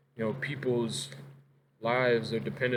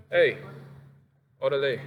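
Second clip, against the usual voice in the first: a loud greeting called across the room, higher; calling out; 4 semitones higher, 6 dB louder than usual. Real, not acted. Greeting someone off-mic, calling out loudly. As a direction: call out to a friend passing by.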